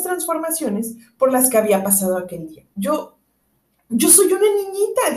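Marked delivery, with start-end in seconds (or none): 2.8-5.2 doubtful. A narrator's reading. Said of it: "dijo Alicia con muchas dudas".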